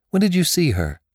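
pressing. Acted. Pressing anxious question.

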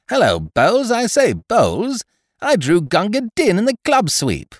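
bursting to share the good news; crowing happily to the landlord about the sweep win; excited, triumphant. Acted. Elated host greets landlord.

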